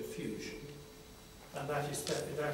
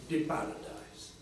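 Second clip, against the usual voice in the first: put-on Father Sophrony's beaming Russian-accented 'the paradise'; thick Russian accent. Monk calls across the garden path, beaming, in thick Russian accent. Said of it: "say in thick Russian accent".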